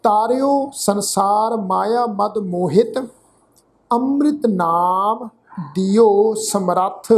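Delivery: slow, measured Gurbani reading; scripture recitation. Shown as a demonstration. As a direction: recite line by line with drawn-out syllables and pauses.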